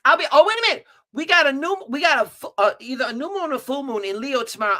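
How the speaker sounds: usual speaking voice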